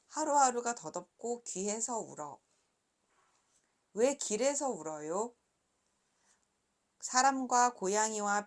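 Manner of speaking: measured, clearly voiced read-aloud with pauses; picture-book reading. A narrator's reading. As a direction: read each question and answer like a picture book. Reads her picture book aloud. (또박또박 그림책 낭독)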